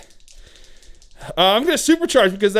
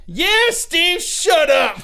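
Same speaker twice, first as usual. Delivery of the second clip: higher, mocking brush-off; dismissive; 10 semitones higher, much slower than usual. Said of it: "And the flamer guy".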